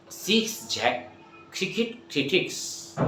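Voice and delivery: slow, soft model line; slow demo. Shown as a demonstration. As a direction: say it slowly so they copy. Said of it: "So what I say".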